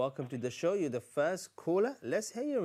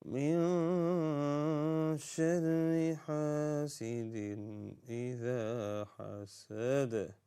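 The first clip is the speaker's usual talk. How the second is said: Quran recitation. Shown as a demonstration. Leads Surah Al-Falaq recitation.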